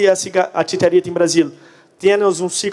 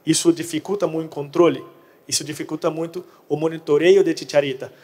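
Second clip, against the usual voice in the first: Portuguese speaker attempting Spanish; Portuguese mixed with Spanish words; portunhol. Real, not acted. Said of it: "hablo portunhol".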